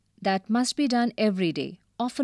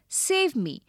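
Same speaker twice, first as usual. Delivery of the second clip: yelling; 4 semitones higher than usual. Acted. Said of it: "He yelled".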